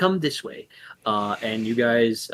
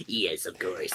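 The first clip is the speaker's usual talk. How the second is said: Morak servant voice; 7 semitones lower, 9 dB quieter than usual. Acted. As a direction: lower and softer, a flat obedient servant. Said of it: "Morak person just goes".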